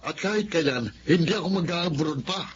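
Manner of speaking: husband refusing outright, high and set; firm refusal. Acted. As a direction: dig in and refuse. Husband flatly refuses going abroad.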